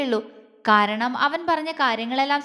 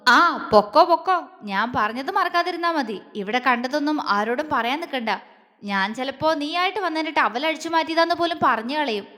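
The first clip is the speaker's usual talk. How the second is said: calling out. Acted. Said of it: "Appu വിളിച്ചു പറഞ്ഞു".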